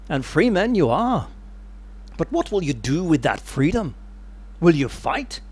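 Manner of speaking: lightly attempted Scottish accent, hammed-up; rally the troops in a rough attempt at Scots; bad Scottish accent. Wallace addresses his countrymen before battle, badly faked Scottish accent. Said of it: "I'm gonna do a really bad accent here".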